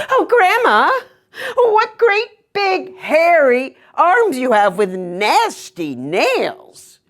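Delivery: put-on high, whimpering little girl; scared girl near tears; frightened girl.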